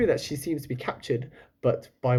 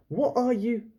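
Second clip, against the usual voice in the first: higher, cut off; mild exasperated question; 10 semitones higher than usual. Acted. Lila demands what the rowers are, mildly sharp. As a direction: demand sharply then stop.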